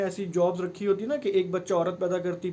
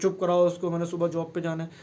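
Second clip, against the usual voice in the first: louder retold snap, easing off by the end; mock yell at wife; 3 dB louder than usual. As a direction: imitate a tired husband barking at his wife. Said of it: "हम बीवी पे ही चीख रहे होते हैं".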